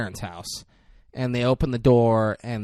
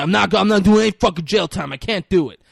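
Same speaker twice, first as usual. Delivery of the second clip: panicked refusal; 7 semitones higher, 7 dB louder, faster than usual. Retold or imitated. Johnny refusing jail.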